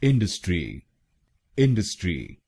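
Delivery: इंडस्ट्री stressed on इन; इंडस्ट्री with a light quick middle; इंडस्ट्री the right way, stress first; correct stress. Shown as a demonstration. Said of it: "हम बोलेंगे".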